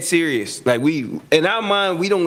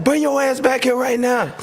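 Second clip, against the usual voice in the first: higher, bossy command; mock coach command; 10 semitones higher than usual. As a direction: order him back like a coach. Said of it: "He was like".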